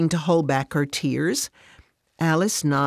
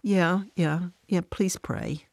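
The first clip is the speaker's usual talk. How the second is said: hesitant; 3 semitones higher, 3 dB quieter than usual. Acted. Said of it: "she hesitatingly says".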